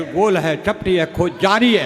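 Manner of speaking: deep, slow dopey answer; dim-witted candidate. Acted. Candidate answers the interviewer in a deep dopey voice. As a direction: play the clueless candidate, voice dropped low.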